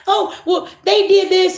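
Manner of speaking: hammed-up high crybaby voice; mock crying whine. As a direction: put on a high, whining fake cry. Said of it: "looking and crying and saying".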